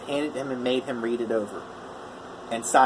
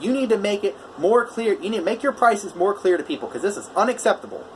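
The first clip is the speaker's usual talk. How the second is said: raised, higher scolding voice; retold loud scolding; 6 semitones higher than usual. Customer scolding the contractor over unclear prices, raised voice. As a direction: lecture the contractor, voice pitched up and pushed. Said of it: "then he gets really loud".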